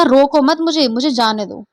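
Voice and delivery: रोको मत मुझे grouped, then मुझे जाने दो; phrased as let go. Shown as a demonstration. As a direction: break before the second मुझे. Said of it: "हमने अल्प विराम यहाँ लगाया".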